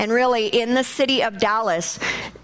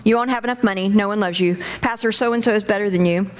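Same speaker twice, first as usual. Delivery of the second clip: accusing enemy voice; 2 semitones lower, faster than usual. Retold or imitated. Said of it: "you know that voice".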